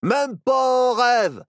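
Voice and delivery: indignant outburst; angry. Acted. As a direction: spit the refusal out. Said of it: "s'énerva Barnabé".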